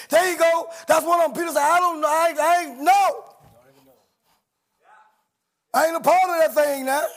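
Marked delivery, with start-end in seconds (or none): 0.1-1.3 loud, pointing accusation; a bystander loudly singling Peter out; accusing shout. Retold or imitated. 1.6-7.1 loud, stammering panic; frantic denial. Retold or imitated. Peter frantically denying.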